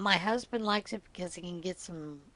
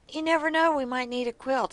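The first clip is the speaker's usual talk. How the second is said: playful teasing; 7 semitones higher, 3 dB louder than usual. Retold or imitated. Teasing husband about the raffle.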